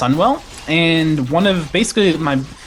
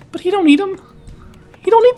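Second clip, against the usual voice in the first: mock tough guy; 5 dB louder, faster than usual.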